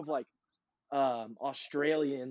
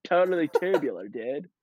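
surfer dude voice. Retold or imitated. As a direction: ham up a California surfer bro. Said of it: "I don't hear you talk like that super often".

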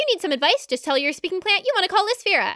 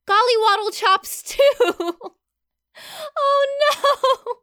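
laughing; 7 semitones higher, 4 dB louder, much slower than usual. Real, not acted. Reading out the silly tattoo.

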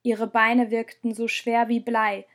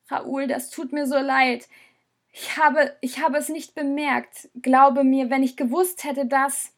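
higher, pleading through tears; tearful apology; 3 semitones higher than usual. Acted. Rosa apologising to Raoul in tears, pleading. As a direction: beg forgiveness while crying, a touch broken. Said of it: "Die Tränen liefen".

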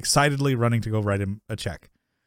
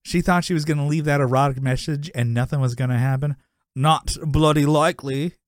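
put-on Cockney accent. Quoting the phone call to a co-host, mock Cockney. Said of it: "he says in a Cockney accent".

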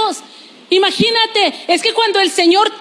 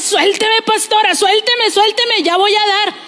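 higher, pleading mock whine; whiny reluctant giver; 4 semitones higher than usual. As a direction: play the believer begging to be let go. Mocks reluctant giver in church.

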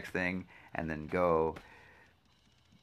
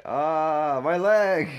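higher mock cry of pain; 7 semitones higher, 3 dB louder, much slower than usual. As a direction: ham up a leg injury. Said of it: "It's like".

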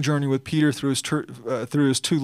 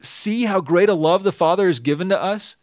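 louder, higher exclamation of wonder; 3 semitones higher, 4 dB louder than usual. Shown as a demonstration. Preacher quoting First John to his church, astonished exclamation. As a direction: proclaim it with astonishment. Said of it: "Not a question".

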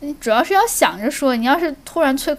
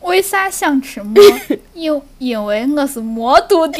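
slow Shaanxi dialect, giggling; slow Shaanxi speech, laughing through it; Shaanxi accent; 2 semitones higher, 4 dB louder than usual. Shown as a demonstration. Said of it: "反正就是陕西".

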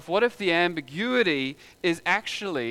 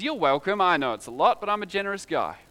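swaggering offer. Retold or imitated. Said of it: "casually hands over ... and says".

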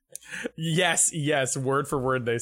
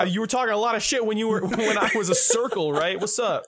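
Agumon; 7 semitones higher, 3 dB louder than usual. Acted. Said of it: "and then Agumon's like".

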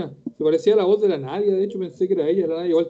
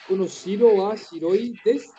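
slow careful repeat; slower than usual. Shown as a demonstration. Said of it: "No sé si se quiso referir".

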